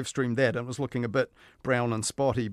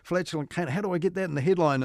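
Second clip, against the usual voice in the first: slightly higher voice thinking aloud; lightly acted reporter, pitched up; imagined puzzled reporter; 4 semitones higher than usual. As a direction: puzzle hurriedly over a headline problem. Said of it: "perhaps the reporter saying".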